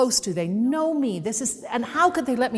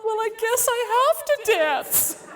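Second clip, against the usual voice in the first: resigned; 14 semitones higher than usual. Retold or imitated. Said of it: "And I thought".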